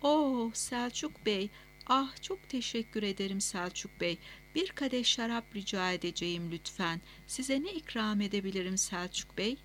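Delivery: thin, affected ladylike voice, high at the start; very high pitch. Retold or imitated. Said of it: "Sesini inceltip ses tonunu dengelemeye çalıştı".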